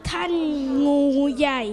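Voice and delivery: child's lightly voiced lion; a hint of a proud lion king. Shown as a demonstration. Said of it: "ทำเสียงสิงโตออกมาเป็นรูปแบบไหน".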